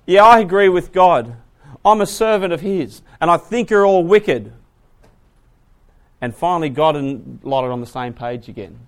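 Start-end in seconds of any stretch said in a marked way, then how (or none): 0.0-4.5 loud, firm proclamation; loud public verdict; bold declaration. Retold or imitated. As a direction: stand up and declare it. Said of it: "he comes out and says".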